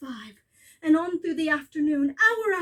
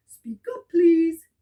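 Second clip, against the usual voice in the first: calling down; 7 dB louder, slower than usual. Acted. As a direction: ask the tiny voice to speak up. Horton straining to hear.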